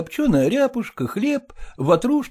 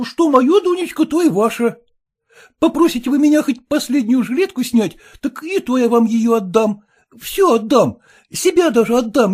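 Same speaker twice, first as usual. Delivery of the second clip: rapturous; 2 semitones higher than usual. Acted. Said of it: "Глеб Кириллович говорил восторженно".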